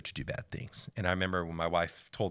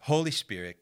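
emphatic call; 6 semitones higher than usual. Real, not acted. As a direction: proclaim Holy Spirit as a rising declaration. Preaching, names the Spirit twice.

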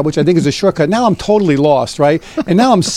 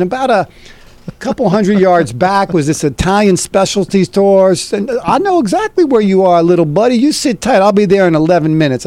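higher, confident buddy voice; pitched-up pal who knows the way; mock eager friend rushing to help; imitating Don; 5 semitones higher than usual. Retelling Don promising a pickup.

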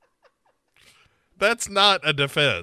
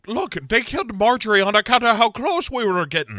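shouting; 5 semitones higher, 3 dB louder, faster than usual. Retold or imitated. Quoting Sarah's warning.

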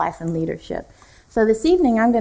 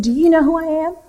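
high, louder affronted challenge; indignant old lady; 7 semitones higher, 4 dB louder than usual. Retold or imitated. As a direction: play the offended pastor's mother. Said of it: "She got really mad at him".

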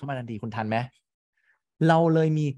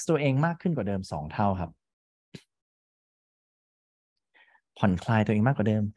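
hypnotic induction voice; 5 semitones lower than usual. Acted. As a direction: guide them down calmly. Begins guided hypnosis induction.

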